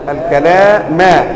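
"الكلام" said slowly as al-kalāma; accusative ending. Shown as a demonstration. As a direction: finish "الكلام" on a. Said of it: "أن تقول".

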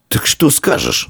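high, drawn-out question; insistent boy's questioning; pressing. A narrator's reading. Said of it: "наседал Дарий".

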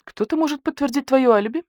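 high, mildly stern demand; stern questioning. A narrator's reading. Investigator asks the suspect for an alibi, mildly stern. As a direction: question him with a touch of severity. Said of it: "строго спросил барсукот".

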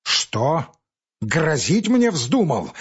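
slow, heated challenge; a touch of angry disbelief. Acted. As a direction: bristle at the threat, slowly. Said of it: "с сердцем заговорил он".

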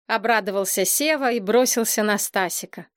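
ordinary delivery, nothing marked

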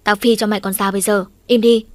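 mock threat ending in a loud yell; furious threat. Mother threatening her son in mock fury, yelling. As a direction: bark the threat, blast the last words. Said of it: "Mẹ lại nổi cơn hùng bạo".

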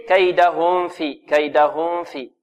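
كيدهم في with م blurred into a held hum before ف; slow faulty demo of كيدهم في; students' hidden meem. Shown as a demonstration. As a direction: smother the م of كيدهم into the ف, as a mistake. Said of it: "بعض الطلاب يقول".

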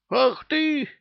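very high indignant yelp; outraged cry. Acted. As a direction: squeal it out in outrage. Outraged exclamation.

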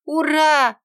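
loud, high-pitched cheer; happy high hurrah; sincere joy. A narrator's reading. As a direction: cheer like a delighted little girl. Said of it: "искренне обрадовалась девочка".

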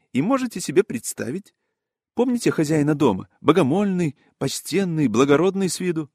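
high, emphatic storyteller relishing the news; excitable gentleman gossip, pitched high; scandalised gossip. Acted. Voices gossiping Yaroslav Ilyich.

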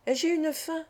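gaily, teasing about her hunger; a cheerful young woman, hungry. A narrator's reading. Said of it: "dit-elle gaiement".

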